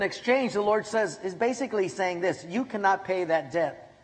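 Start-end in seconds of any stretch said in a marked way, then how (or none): 2.4-3.9 tender. Pretend. God's words voiced tenderly.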